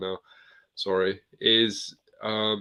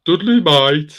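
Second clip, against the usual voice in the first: mock Black Country accent; 7 semitones higher, 11 dB louder, slower than usual. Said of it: "awful, awful accent".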